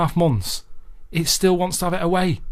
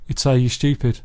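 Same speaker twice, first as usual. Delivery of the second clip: Alan Sugar; 2 semitones lower than usual. Retold or imitated. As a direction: scoff at them like a blunt business boss. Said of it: "Alan Sugar would, he'd say".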